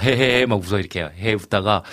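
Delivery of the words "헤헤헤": light mock "heh-heh-heh" laugh; imitated giggle. Host retelling how a young student laughed while talking, imitated giggle. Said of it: "막 웃으면서 얘기 막".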